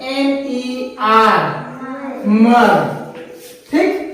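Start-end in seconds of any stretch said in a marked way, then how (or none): 2.3-2.7 मर as a single sound, not letter by letter; ending pronounced मर. Shown as a demonstration. Teacher reading out a spelled ending, मर as one syllable. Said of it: "तो इसका उच्चारण होगा".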